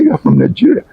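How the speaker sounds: high, eager exclamation; triumphant guess; high bright claim; excited insistence. Retold or imitated. Former student insisting.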